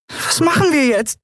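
high piping little voice; tiny winged creature piping a worried question. Acted. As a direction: squeak the question out. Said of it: "piepste sie".

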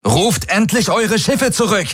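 deutlich höher, laut fordernd; gerufen. A narrator's reading. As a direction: ruf die Flotte verzweifelt zurück. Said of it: "rief seine Projektion". (Projektion ruft verzweifelt die Flotte zurück)

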